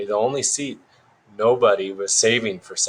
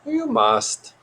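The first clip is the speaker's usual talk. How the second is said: very high, insistent creature voice; Yoda puppet voice. A narrator's reading. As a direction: insist harder, pitched far up.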